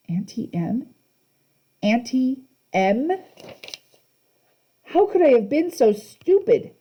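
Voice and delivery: dawning horror. A narrator's reading. Percy realizing.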